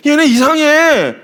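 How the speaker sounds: mock weirded-out reaction. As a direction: draw it out high, as a put-off newcomer. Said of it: "이런 정서예요". (이상하다는 듯 과장된 흉내)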